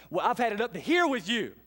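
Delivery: a parent at the end of their rope; exasperated parent. Retold or imitated. Parent scolding a child, mock exasperated. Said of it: "they'd be going".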